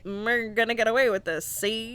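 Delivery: a light touch of a 1930s movie gangster; old gangster voice. Retold or imitated. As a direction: toss it off like a tough-guy gangster, see. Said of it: "I don't know why I just did that voice".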